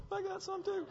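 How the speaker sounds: a hint of a guilty adult whispering along; sheepish confession. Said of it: "secret adults going".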